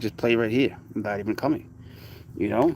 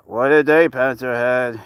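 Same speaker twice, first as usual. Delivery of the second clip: slow pet coo; 5 dB louder, slower than usual. Real, not acted. Cooing at pet.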